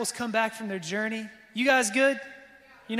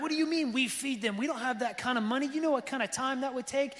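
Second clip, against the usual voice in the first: higher, quicker mock protest; incredulous disciples; 3 semitones higher than usual. Pastor mimicking disciples objecting to Jesus, higher and quicker. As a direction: splutter the objections.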